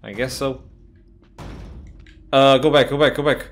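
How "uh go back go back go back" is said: panicked. Real, not acted. Fleeing in a horror game.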